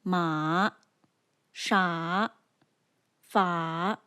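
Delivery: "Ma, sha, fa" each dipping, then rising; third tone. Shown as a demonstration. Teacher demonstrates the third tone, "Ma, sha, fa" falling then rising. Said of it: "The third tone falls and then rises".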